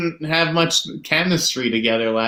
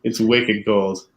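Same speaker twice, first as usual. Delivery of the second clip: put-on slow, low echo in a Boston accent; unhurried put-on Boston accent; 4 semitones lower, slower than usual. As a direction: draw it out in a mock Boston accent. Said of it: "here in Boston".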